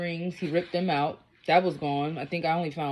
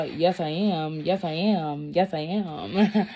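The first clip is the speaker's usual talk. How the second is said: taunting, laughing; much slower than usual. Retold or imitated.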